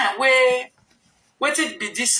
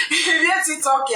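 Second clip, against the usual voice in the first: laughing; 4 semitones higher than usual. Real, not acted. Talking through the laugh.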